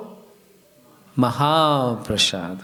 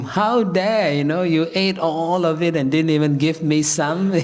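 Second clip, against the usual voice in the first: mildly indignant scolding, raised pitch at the start; mock anger; 2 semitones higher than usual. Shiva scolds Narada for eating all of it, mock anger. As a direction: act out a light, retold outrage. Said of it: "Lord Shiva gets angry with him".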